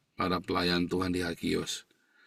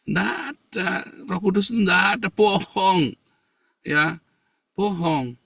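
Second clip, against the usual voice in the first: mock shouted accusation; 9 semitones higher, 5 dB louder, slower than usual. Voicing accusers loudly.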